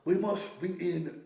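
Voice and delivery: slow, lightly put-on German accent; a hint of mock German villain, drawn out; Klaus Schwab. Quoting the forum's leader to a mate, mock German accent. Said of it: "he sounds German".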